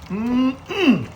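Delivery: two-part relishing hum; appreciative mm-mm. Real, not acted. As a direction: hum "mm-mm" like it looks delicious. Relishing the stirred food.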